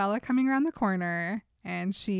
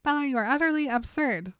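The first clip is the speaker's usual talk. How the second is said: quick, higher-pitched mock indignation; angry outburst; 6 semitones higher, faster than usual. Affronted Edward scolds Bella as absurd, mildly angry. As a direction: tell her off briskly, lightly annoyed. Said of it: "But I was angry all the same".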